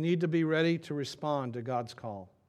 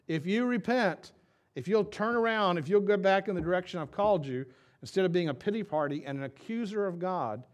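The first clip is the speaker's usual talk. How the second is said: voice of the Lord; 5 semitones higher, 5 dB louder than usual. Retold or imitated. Pastor voicing God to the congregation, urging with force. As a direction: press the call to repent. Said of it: "He says".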